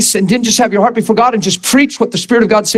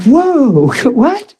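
surprised laugh; 5 semitones higher than usual. Retold or imitated. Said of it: "I'm like".

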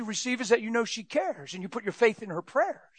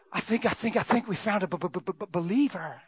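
stammering imp; 4 dB quieter than usual. Acted. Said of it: "the imp stammering to the devil".

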